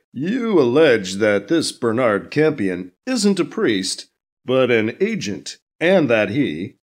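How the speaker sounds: slow, measured anchor voice; a lightly voiced interviewer; news anchor. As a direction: anchor probing the guest calmly.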